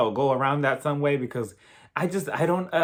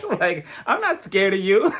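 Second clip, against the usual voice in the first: laughing; 4 semitones higher, 4 dB louder than usual. Real, not acted. Laughing defiance.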